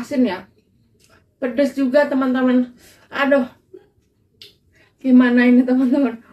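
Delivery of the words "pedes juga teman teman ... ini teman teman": mouth burning from spicy food. Real, not acted. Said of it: "Saya kepedesan ternyata ini".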